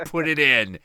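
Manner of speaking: hammed-up impatient insistence; retold urgent demand. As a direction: demand it word by word, rising to loud.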